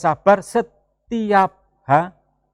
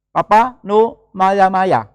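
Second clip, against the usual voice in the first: put-on slow, lisping toddler plea; child's voice; much slower than usual. Pastor imitating his toddler Noel telling him not to be angry. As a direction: mimic a small child scolding his dad. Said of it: "Itu Noel".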